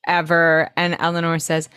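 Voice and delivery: ordinary talk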